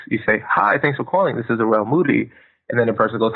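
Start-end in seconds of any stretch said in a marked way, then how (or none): 0.5-2.3 calm even greeting. Shown as a demonstration. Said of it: "answer the phone in a very even, calm, uh, voice".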